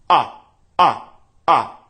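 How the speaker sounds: loud, solid ah with tight cords; compressed ah. Shown as a demonstration. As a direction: press each ah firm and clean. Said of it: "how compressed and solid the cords are".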